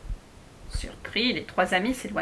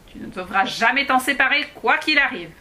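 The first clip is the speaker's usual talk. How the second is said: high and louder, a stern little dwarf; a dwarf warning the girl never to lose the carving; 4 semitones higher, 5 dB louder than usual. Acted. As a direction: warn her in a high, tiny voice. Dwarf warns Alice.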